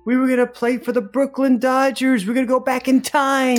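a lightly voiced kid asking his grown self what happened; eight-year-old self. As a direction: plead like the boy who wanted baseball. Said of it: "This is eight-year-old you".

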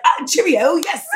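friend imitating a cheery South African hello; South African accent. Imitating a man greeting her in a South African accent. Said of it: "He said that with an accent".

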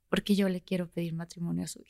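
choked up, voice cracking as the quote ends; retold proposal, quiet and tearful; voice breaking. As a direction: let the tears catch the last words. Retelling emotional proposal, voice breaking.

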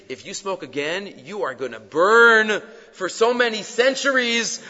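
imagine screaming a dire warning, half in earnest; mock scolding yell. Rabbi imagining a scolding of the boy, mock yell. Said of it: "Could he have screamed at him".

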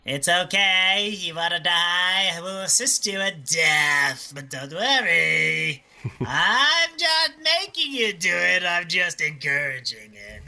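slow, hammy creepy doctor voice; Doctor Kevorkian impression. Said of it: "my teeth on Doctor Kevorkian".

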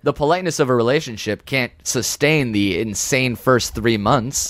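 shaky breakup voicemail. Acted. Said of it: "Amir, calm down".

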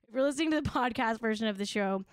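fast retake of the aside; quick redo of the line; rushed retake. Shown as a demonstration. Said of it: "throw that back up for one more second".

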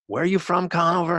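a hint of a wary bunkmate prying; suspicious bunkmate. Ex-Marine bunkmate quizzing his new roommate, mildly voiced suspicious.

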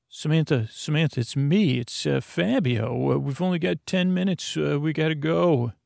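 a hint of a hurried rescuer voice; non-regular voice. Fabio rescuing Samantha from her cell, lightly put-on urgent voice. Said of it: "I'm talking in my non-regular voice".

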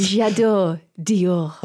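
very slow, husky fake French perfume ad; sultry perfume ad. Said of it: "shitty fake French accent".

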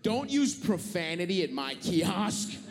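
slow, lightly voiced scolding teacher; schoolteacher scolding. Kiosk trainee reprimanding a passenger, mild teacherly scolding. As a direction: scold slowly, a hint of middle school teacher. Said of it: "talking to me like my middle school teacher".

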